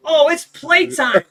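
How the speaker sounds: high, loud, drawn-out playful dog voice; excited dog. Retold or imitated. Goliath seeing the ladder carried, excited dog voice. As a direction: voice an eager dog ready to play. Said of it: "Goliath is like".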